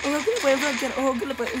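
voice crack. Real, not acted. Coach warns player about being flanked, voice cracks. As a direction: voice cracking mid-warning. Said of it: "uy, me salió un gallito".

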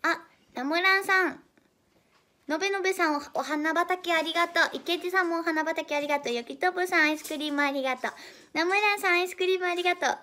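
loud, high, cheerful shout-outs; excited thanks. Real, not acted. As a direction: thank everyone with bright energy. Excited thanks to viewers for gifts.

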